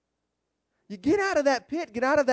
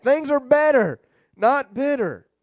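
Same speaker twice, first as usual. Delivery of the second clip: emphatic restatement; 3 semitones higher, 4 dB louder, slower than usual. Real, not acted. Preacher affirming the slogan to congregation, emphatic and loud. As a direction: proclaim it firmly to the room.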